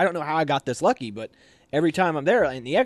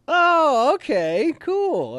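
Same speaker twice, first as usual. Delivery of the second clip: high, loud "now I get it" reaction; put-on casual officer catching on; imitated realization; 14 semitones higher, 5 dB louder, much slower than usual. XO hearing about the twin brother, exaggerated casual realization. XO acted out, accepting twin explanation.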